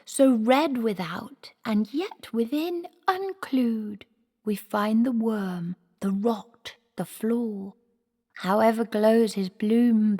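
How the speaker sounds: a boy mimicking a hammy old actor; boy imitating the actor manager. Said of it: "But he sounded just like".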